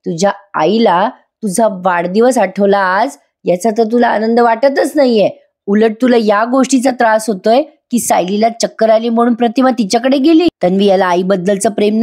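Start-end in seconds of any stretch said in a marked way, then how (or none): 0.1-10.5 higher-pitched mock scolding; retold anger. Father scolding his daughter for blaming Sayali, mock angry. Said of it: "Raviraj खूप चिडतात तिच्यावर".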